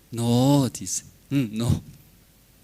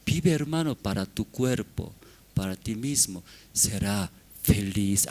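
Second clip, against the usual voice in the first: a hint of a sly tempter, softer; lightly voiced devil coaxing, quieter; tempting Satan; 5 semitones lower, 4 dB quieter than usual. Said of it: "Pero Satanás, ¿qué metió?".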